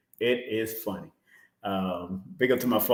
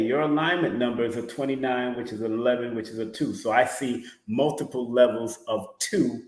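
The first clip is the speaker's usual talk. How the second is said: ordinary talk, nothing marked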